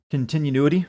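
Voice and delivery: continuity said as con-tin-yu-NOO-ity; own pronunciation. Shown as a demonstration. Streamer checking a word chat questioned, doubtful own pronunciation. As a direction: add an extra "noo" in continuity. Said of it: "I mispronounced".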